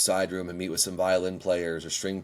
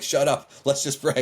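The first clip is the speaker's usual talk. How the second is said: a louder, higher "shut up" tossed back in jest; playful snap; 5 semitones higher, 3 dB louder than usual. Retold or imitated. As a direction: cut the teasing short, half joking. He brushes off teasing peers.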